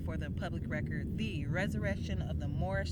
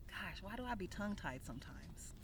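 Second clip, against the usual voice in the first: a muttered whisper to herself; breathy self-scolding whisper; whispered aside; 12 dB quieter than usual. Real, not acted. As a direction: whisper it under your breath, annoyed at the slip. Self-aside about stumbling.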